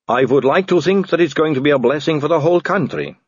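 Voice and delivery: lightly voiced gracious vampire aristocrat; vampire lady coaxing the tired Vimes; silky vampire lady. A narrator's reading. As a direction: purr the offer, all courtesy. Margalotta, silky.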